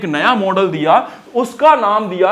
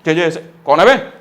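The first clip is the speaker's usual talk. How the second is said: calling out; 3 dB louder than usual. Retold or imitated. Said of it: "ऐसे आवाज का, ऐसे रिएक्ट कर रहे हैं".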